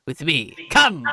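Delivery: loud, high command; commanding shout; rallying call. Acted. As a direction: call them to your side. Character rallying the party.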